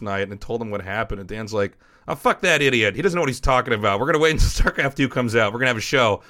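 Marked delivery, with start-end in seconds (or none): 2.1-6.2 louder, fast and scornful, brushing it off; loud, fast scornful pep talk; defiant dismissal. Retold or imitated. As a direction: wave the doubter away with a fast, loud scoff. Dan dismissing the doubter.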